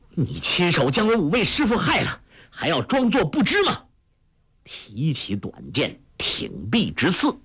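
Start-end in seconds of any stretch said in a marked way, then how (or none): 0.1-3.8 much higher, enraged cry; young man shouting in fury at his masters' killer; furious accusation. Acted. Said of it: "郭靖的眼中 如要出血， 叫道".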